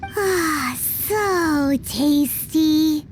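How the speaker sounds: savoring. Acted. Eating, praising the food.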